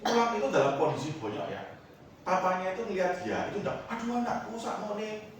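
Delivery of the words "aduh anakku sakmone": much higher, tender mock-pity; doting father. Preacher mocking what a doting father would not say, high mock pity. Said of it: "ndak gitu loh".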